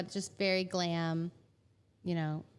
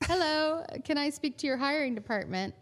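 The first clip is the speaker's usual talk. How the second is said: retelling the phone call in a mock English accent, pitched high; 7 semitones higher than usual. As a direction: do the English caller's accent, lifted up. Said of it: "I do the accent".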